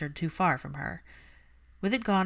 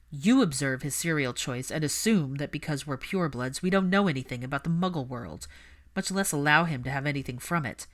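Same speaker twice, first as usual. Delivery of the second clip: Malfoy's cold voice. Acted. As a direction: talk down to her as the haughty pureblood. Malfoy voiced lower, louder.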